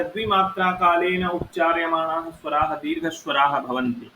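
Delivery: chanted Sanskrit rule, measured and formal; sutra recitation. Shown as a demonstration. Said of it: "Sanskrit sutra recitation". (सूत्र पाठ का स्वर)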